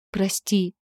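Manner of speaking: ordinary delivery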